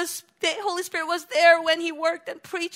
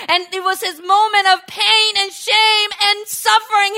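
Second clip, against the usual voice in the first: emphatic preaching; 5 dB louder than usual. Real, not acted. Preacher correcting a misunderstanding, emphatic and loud. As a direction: drive the point home.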